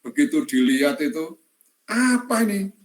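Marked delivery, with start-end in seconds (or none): 1.8-2.7 outraged question. Retold or imitated. Lecturer outraged at the drawing.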